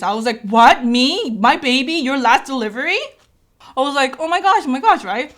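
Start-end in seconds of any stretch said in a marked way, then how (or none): 0.4-3.0 incredulous surprise. Retold or imitated. Doctor says last delivery. 4.2-5.0 high, excited oh my gosh; thrilled, high-pitched repeated exclamation; excited squeal. Retold or imitated. Reacting to doctor's news.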